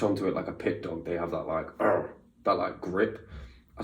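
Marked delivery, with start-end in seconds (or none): 1.8-2.1 short imitated pit dog growl. Explaining a pit dog's latching grip, dog growl.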